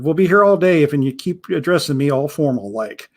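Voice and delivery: a hint of a gruff old pirate, proud of his name; lightly voiced pirate.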